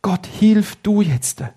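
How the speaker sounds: put-on boy crying to God for help; calling out to God. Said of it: "fängt er an zu rufen".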